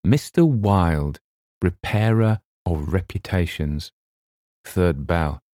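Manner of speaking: Mister Wilde read out slowly, word by word; a slow, formal reading of Mister Wilde; reading a sign. A narrator's reading. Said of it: "It read".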